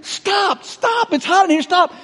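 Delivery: yelling. Acted. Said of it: "I was yelling at him".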